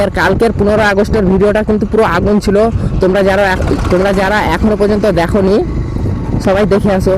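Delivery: muffled through a helmet; talking inside a closed helmet. Real, not acted. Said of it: "ভাই হেলমেটের মধ্যে একটু কথাবার্তা এরকমই হবে".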